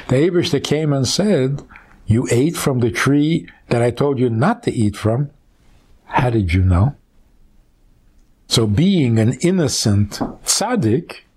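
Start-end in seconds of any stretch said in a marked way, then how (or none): 2.1-6.9 gentle question. Shown as a demonstration. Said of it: "Who says he said it like that?".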